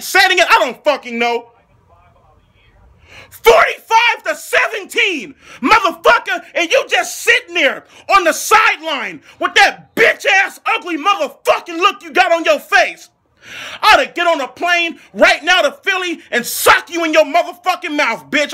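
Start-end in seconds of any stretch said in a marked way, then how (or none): 3.3-13.1 angry rant. Acted. Ranting fan yelling at coach. 13.8-18.5 threatening yell. Acted. Threatening to sock the QB.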